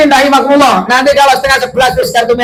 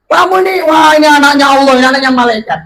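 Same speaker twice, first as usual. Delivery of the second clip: mocking accusers; 3 semitones higher, faster than usual. Accusing crowd voiced.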